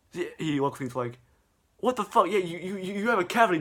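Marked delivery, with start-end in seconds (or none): 1.8-3.6 raised, louder incredulous reaction; mock exclamation. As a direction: act out startled disbelief. Voicing Mario reacting to Jeffy's tooth.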